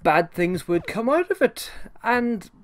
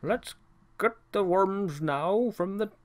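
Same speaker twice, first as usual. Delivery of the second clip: lightly voiced cartoon servant, cheerful; a hint of the fussy servant Burke greeting his pets; imitating Burke; 4 semitones higher than usual. Burke greets his pets in the kitchen, lightly voiced cheerful servant. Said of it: "Burke actually did sound something a little like that".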